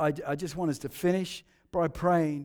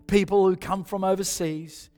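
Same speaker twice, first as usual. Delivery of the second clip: prayer. Real, not acted. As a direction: pray gently over them. Leads a soft prayer.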